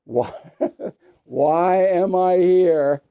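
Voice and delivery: lightly voiced put-upon dog, slow with a laugh; a mild hint of a whining pet, half laughing; playful dog voice for the Christmas dog; voicing the dog. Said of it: "The Christmas dog is going".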